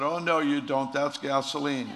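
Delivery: mock yell. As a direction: yell "That's gasoline" in mock alarm. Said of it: "Doctor Young yells out".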